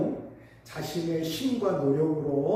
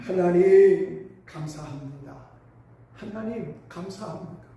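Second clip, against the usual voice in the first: tearful thanks; 4 dB louder than usual. Retold or imitated. Father weeping at his rebuilt house, tearfully thanking God. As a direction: call out, then soften to almost nothing. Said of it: "눈물을 흘리면서 이런 말을 합니다".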